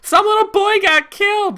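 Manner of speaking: high, loud, whiny mockery; mocking mourner. Mocking people upset about the trial with a high whine.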